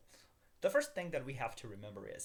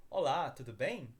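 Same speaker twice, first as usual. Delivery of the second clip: quick, natural "Olá, tudo bem?" as a Brazilian would say it; natural Brazilian speed; 5 dB louder than usual. Shown as a demonstration. Teacher reads the dialogue to learners at native speed. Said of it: "I'm gonna speak a little faster".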